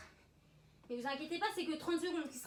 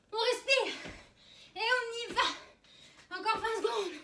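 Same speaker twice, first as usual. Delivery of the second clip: high, loud coach shout; barking gym coach; 7 semitones higher, 6 dB louder, slower than usual. Real, not acted. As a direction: drive the class through the burn. Coach shouting during jump squats.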